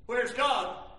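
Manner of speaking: the question put out at speaking volume. Acted. Same doubt repeated louder.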